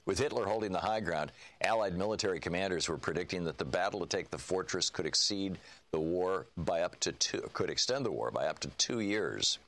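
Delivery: measured audiobook reading; book narration. A narrator's reading. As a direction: read the prologue like a narrator. Reads book prologue aloud.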